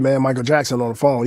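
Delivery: casual, offhand retold announcement; nonchalant. Friend announcing a famous caller, nonchalantly. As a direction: toss it off as no big deal. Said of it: "He said it so nonchalantly".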